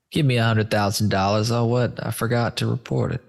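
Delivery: mock New York wiseguy accent; fast, brash New York accent. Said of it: "I don't know why I'm doing a New York accent".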